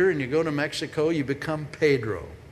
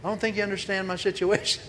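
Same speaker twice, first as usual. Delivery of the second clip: mock protest; 4 semitones higher, faster than usual. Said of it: "Have you ever said that to God?".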